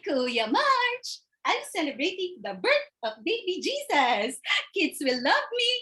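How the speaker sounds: a hint of a pure child-like sibling; mildly voiced December; innocent December. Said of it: "you're pure, December".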